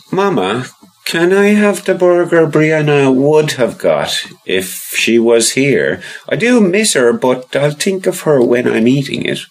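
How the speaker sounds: put-on high little boy voice; child voice. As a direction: voice young Rory, high and eager. Child Rory voiced in story.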